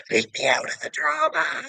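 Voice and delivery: high mocking falsetto of a timid rapper; mock whiny rapper. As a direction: squeak it out like a scared wimp. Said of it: "do you think he'd say".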